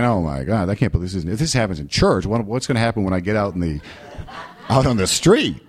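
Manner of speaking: laughing disbelief. Retold or imitated. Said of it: "I'm thinking".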